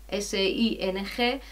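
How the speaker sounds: ordinary delivery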